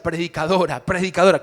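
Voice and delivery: loud, insistent calling out of the title; teasing call. Retold or imitated. Mother calling her rebellious daughter preacher, loud. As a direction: call her the name she hates.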